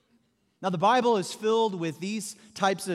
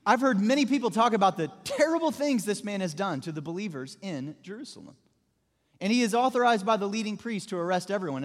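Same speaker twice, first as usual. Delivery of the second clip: emphatic, mildly agitated objection; great emotion. Acted. Ananias objects to the Lord about Saul, with great emotion. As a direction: protest with feeling, leaning on the key words. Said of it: "he did so with great emotion".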